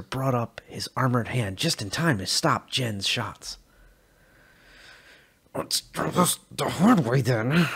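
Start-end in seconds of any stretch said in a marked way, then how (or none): 5.5-7.7 grinning challenge. A narrator's reading. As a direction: relish the fight ahead. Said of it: "said with a grin".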